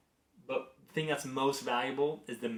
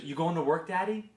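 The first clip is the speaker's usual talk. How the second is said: higher, lightly voiced toddler question; little daughter; 5 semitones higher than usual. Daughter asking dad as he leaves, imitated questioning. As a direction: lightly imitate a child asking, lifting at the end. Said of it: "she goes".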